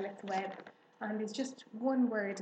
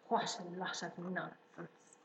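slow, low-energy grumble, softer; muttering; 3 semitones lower, 5 dB quieter, slower than usual. A narrator's reading. Templeton the rat hidden in the straw, muttering. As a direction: mutter it scornfully under the breath. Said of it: "muttered the rat".

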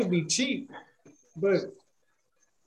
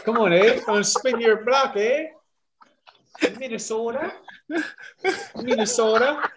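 higher-pitched Minnesotan caricature with questioning rises; mock Minnesota accent; 3 semitones higher than usual. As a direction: lift each phrase in a put-on Minnesota accent. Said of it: "I don't even got a Maine accent to give you".

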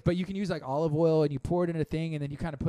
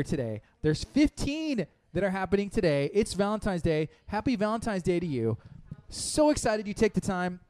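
higher-pitched, upbeat station promo read; radio host announcement; 4 semitones higher than usual. Real, not acted. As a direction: sell the day's event to listeners.

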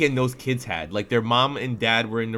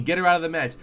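retold yell, pitched up; raised-voice plea, retelling a scream; 5 semitones higher, faster than usual. Apartment yelling at the match, toned-down retold scream.

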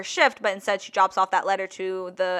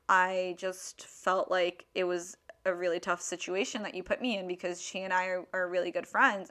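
low, subdued, hesitant explanation; retold meek phone reply; quiet on the phone; 4 semitones lower, 10 dB quieter than usual. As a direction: explain yourself softly and lower. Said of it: "I was pretty quiet on the phone".

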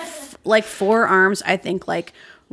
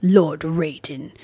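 vast deep cosmic voice; 3 semitones lower, slower than usual. Retold or imitated. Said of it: "the other gods say things to him like".

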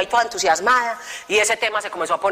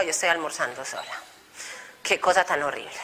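self-pitying lament; 8 semitones lower, 9 dB quieter than usual. Retold or imitated. Lamenting eating alone.

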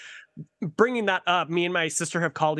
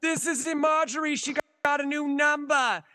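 put-on old lady character; 11 semitones higher than usual. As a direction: quaver it out like a confused granny. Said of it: "I'm like".

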